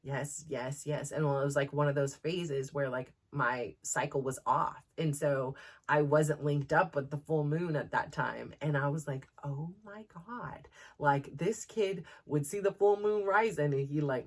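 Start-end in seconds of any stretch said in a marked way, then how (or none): 0.0-1.1 quiet realization. Retold or imitated. Mother realizes son is right. 9.4-10.7 slow, soft, awed oh my God; stunned hush. Retold or imitated. Mother realizing her son noticed her moods, slow awed hush.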